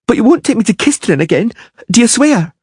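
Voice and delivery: put-on high anxious child's voice; pleading girl. A narrator's reading. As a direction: make him swear.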